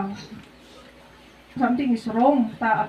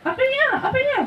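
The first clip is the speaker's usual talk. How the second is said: imitating slurred speech; 12 semitones higher than usual. Husband's slurred post-stroke speech imitated.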